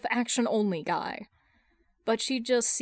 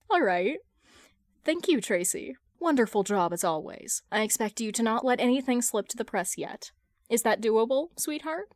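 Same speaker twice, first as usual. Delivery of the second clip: gentle and sweet; 2 semitones higher than usual. Acted. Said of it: "with a gentle smile".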